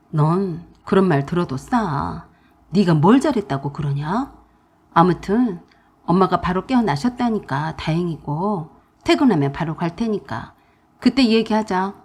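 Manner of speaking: put-on firm older brother tone; stern husband. Husband coolly scolds his sister on the phone.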